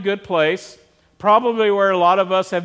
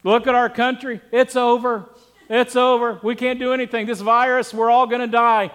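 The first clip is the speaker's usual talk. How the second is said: higher, hammed-up panicky despair; mock doom and gloom; 3 semitones higher than usual. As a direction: play the worrier who thinks it's all over, pitched up. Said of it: "Not like".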